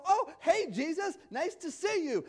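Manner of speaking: lightly hammed-up casual hello; mock casual greeting. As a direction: play it like bumping into a buddy. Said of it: "he didn't go".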